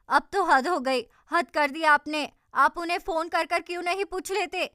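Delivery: loud, fed-up outburst; furious at his accusation, loud; exasperated shout. Acted. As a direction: throw up your hands and shout. Quarrel, she loses patience.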